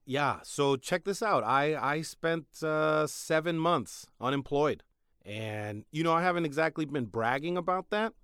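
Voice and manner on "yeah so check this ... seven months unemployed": slow. Real, not acted. Slow build to confession.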